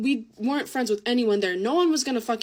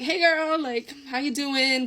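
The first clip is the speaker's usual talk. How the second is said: chummy greeting; 4 semitones higher, slower than usual. Retold or imitated. Retold greeting to art class acquaintance.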